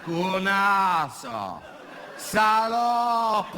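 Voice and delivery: insultes hurlées en riant, voix aiguë; insultes criées. Acted. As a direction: lance les insultes en criant. (insultes criées en riant, voix plus aiguë)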